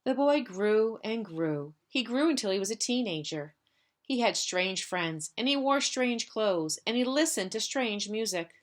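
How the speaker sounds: put-on gentle read-aloud for children; story narration. Teacher reads picture book aloud.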